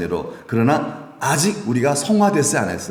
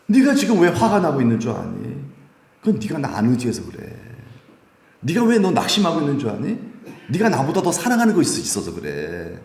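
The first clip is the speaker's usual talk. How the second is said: higher, pointed questioning voice; God's voice; 3 semitones higher than usual. Retold or imitated. God confronting the believer, higher and probing. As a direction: ask it like God confronting a child. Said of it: "이렇게 말씀하시는 거예요".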